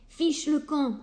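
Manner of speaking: mock yell of a rude little pig. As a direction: bark him away from the door. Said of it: "hurle le petit cochon impoli".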